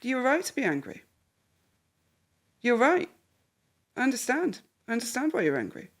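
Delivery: gentle, even acknowledgement; calm validating. Shown as a demonstration. Parent calmly validating an angry son, gentle and even. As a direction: soothe him, don't fight the point. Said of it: "and you go".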